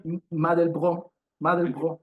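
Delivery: "Mandelbrot" said as mahn-del-BROH with a French throat r; "Mandelbrot" in fake French, the final t dropped; French pronunciation. Shown as a demonstration. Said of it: "I fake French".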